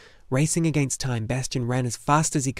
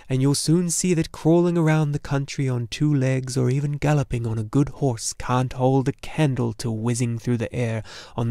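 louder, buoyant dragon voice; lightly voiced jolly dragon, upbeat; cheerful luck dragon; 3 dB louder than usual. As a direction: cheer up the boy with sure confidence. Dragon offers himself as mount.

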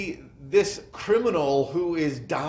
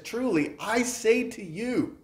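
solemn promise; 9 semitones higher than usual. Acted. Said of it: "making this commitment in his words".

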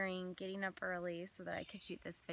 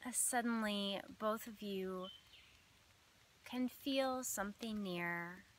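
measured meditation voice with long pauses between phrases; unhurried phrases, each left to settle; guided visualization. Acted. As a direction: lead listeners gently through an imagined scene.

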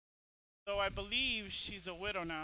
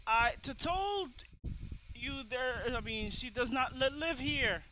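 lightly voiced old lady, stammering; a higher, halting old-lady voice at first; flustered old lady; 4 semitones higher, 4 dB louder than usual. Old lady stammering at the caller through her door, flustered.

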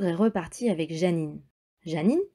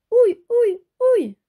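ogre's pained ouch; 7 dB louder than usual. Acted. Poor ogre in trouble.

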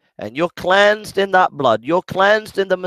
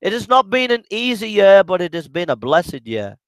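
calm, earnest prayer voice; congregational prayer. Real, not acted. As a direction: pray humbly on behalf of everyone.

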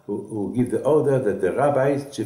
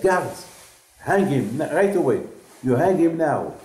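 shouted commands, much higher and louder; furious order; 6 semitones higher, 5 dB louder than usual. Retold or imitated. Napoleon shouting at his guards to hang Moïse. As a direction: bark it at the guards in rage. Enraged emperor orders a hanging.

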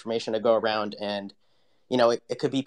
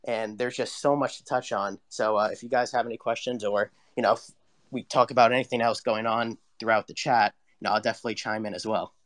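glitchy robotic bad connection; choppy digital distortion. Real, not acted. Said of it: "you sound like a robot".

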